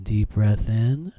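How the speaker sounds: slow drawn-out instruction; drawn-out breath cue. Shown as a demonstration.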